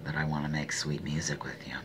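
hammed-up seductive whisper, very soft; playful breathy whisper to the audience; mock sultry whisper. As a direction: whisper it like a joking come-on. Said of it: "talking like".

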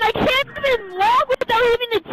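frustrated yelling. Real, not acted. Player complaining about lag, yelling.

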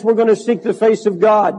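normal talking voice

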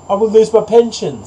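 high-pitched duck's protest; duck refusing. A narrator's reading.

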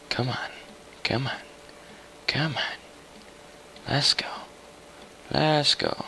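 light, high, repeated urging; high little chant of encouragement; high-pitched urging. Real, not acted. Urging himself on in a chase.

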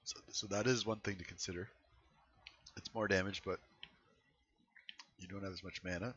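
losing voice, tired and raspy; strained hoarse voice fading out. Real, not acted. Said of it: "I'm losing my voice now".

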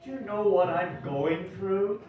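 a lightly voiced troubled character, rising tune; rising distress.

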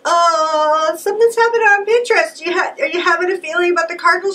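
high, sing-song mock mom; teasing mom voice.

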